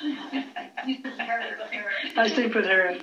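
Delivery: laughing through the words. Real, not acted. Owner admits sleeping with the dog, laughing. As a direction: say it through a real, drawn-out laugh.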